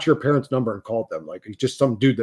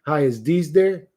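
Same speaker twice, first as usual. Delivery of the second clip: innocent prank call; 3 semitones higher than usual. Retold or imitated. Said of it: "I'm like".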